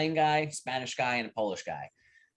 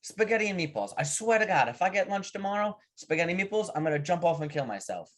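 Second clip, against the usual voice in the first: fed-up Italian worker; 6 semitones higher than usual. Acted. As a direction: play a worker at the end of his rope. Italian worker swears in joke.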